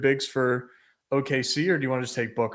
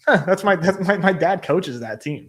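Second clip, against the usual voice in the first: higher, louder, retelling his delighted surprise; excited surprise; 5 semitones higher, 3 dB louder than usual. Retold or imitated. To his co-host, retelling the small-world moment, excited surprise. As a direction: act out the thrilled realisation. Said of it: "And I was like".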